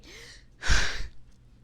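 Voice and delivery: loud breathy sigh; loud exasperated sigh. Real, not acted. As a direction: let out a big sigh. Sigh after rant.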